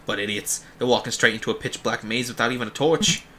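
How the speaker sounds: lightly voiced, dismissive Boston jailer; Quark, vaguely Bostonian accent. Guard mocking the departed travellers, vaguely Bostonian. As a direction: scoff with a hint of Boston. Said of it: "using, like, a vaguely Bostonian accent for him".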